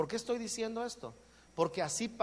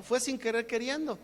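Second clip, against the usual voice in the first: lightly voiced kid's catchphrase, a bit higher; a hint of El Chavo's innocent excuse; 4 semitones higher than usual. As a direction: toss off the kid's excuse, sin querer queriendo. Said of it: "¿El chavo?".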